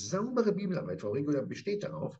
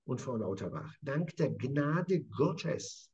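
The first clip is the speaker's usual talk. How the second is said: reverent; much slower than usual. Acted. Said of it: "Und er sagt".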